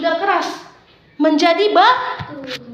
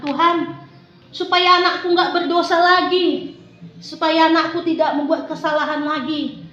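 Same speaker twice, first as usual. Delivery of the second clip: pleading prayer. Acted. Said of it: "Ibu Darmi meminta sama Tuhan".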